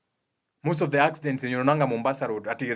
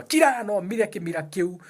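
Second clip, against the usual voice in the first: imitating a crying child; 7 semitones higher than usual. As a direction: play the snotty wailing kid for a moment.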